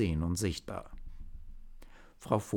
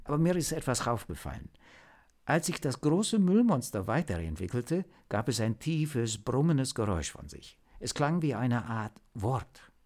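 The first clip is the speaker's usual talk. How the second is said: higher-pitched, lightly voiced agent; hesitant agent reporting; 4 semitones higher than usual. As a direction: share an odd observation with the team. (berichtende Agentin, etwas höhere Stimme)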